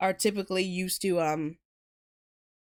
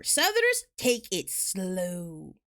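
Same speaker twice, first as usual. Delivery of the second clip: slow Southern drawl; 3 semitones lower, slower than usual. Shown as a demonstration. Showing viewers how Southerners take it slow, in a slow drawl. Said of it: "You gotta remember".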